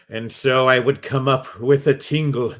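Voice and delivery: mock Vincent Price. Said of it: "Is it just Vincent Price talking".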